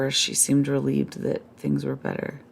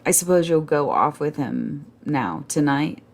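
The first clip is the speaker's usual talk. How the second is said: bitter. Acted. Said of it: "she went into bitterness".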